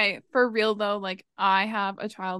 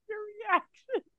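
high, breaking into laughter; trying not to laugh; 11 semitones higher, 8 dB quieter than usual. Real, not acted. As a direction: fight back giggles. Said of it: "I just cover my mouth because I am gonna laugh".

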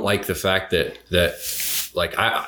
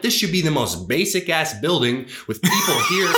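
pitched-up indignant retelling; retold disgust; 6 semitones higher than usual. Recalling a church trip to a friend, indignant. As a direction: voice climbing in exasperated disgust. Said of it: "I remember I was disgusted".

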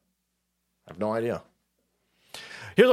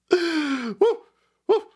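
much higher whooping cheer; excited whoop; 12 semitones higher than usual. Real, not acted. Streamer cheers a viewer's gift with a high whoop. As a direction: let out a celebratory woo.

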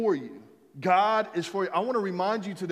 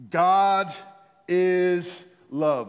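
congregation declaration; 5 dB louder, much slower than usual. Shown as a demonstration. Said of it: "Let's say this together".

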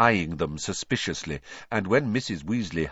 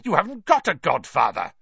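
Vernon; 7 semitones higher, 4 dB louder than usual. A narrator's reading. Vernon angrily denying.

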